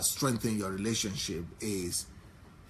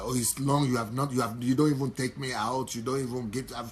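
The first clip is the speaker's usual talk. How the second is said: complaining wife. Shown as a demonstration. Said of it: "instead of saying".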